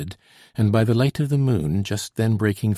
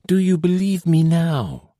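deep anxiety; 8 semitones higher, 5 dB louder than usual. A narrator's reading. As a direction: let the worry stretch each word. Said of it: "in tones of deep anxiety".

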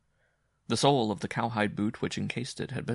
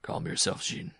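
soothingly; 3 semitones lower than usual. Acted. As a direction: hush her gently. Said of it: "Simon Lafleur said soothingly".

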